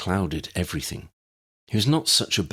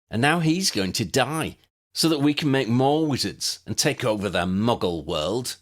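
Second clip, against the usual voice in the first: lightly voiced young villain, smug and boastful; a hint of a proud schemer revealing his plan; Granville, gloating; 4 semitones higher than usual.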